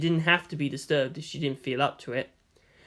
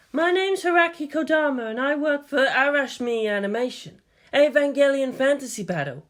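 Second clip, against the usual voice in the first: higher female voice, businesslike; young woman; 10 semitones higher than usual. A narrator's reading. Kodama introduces herself to Makoto, higher female voice.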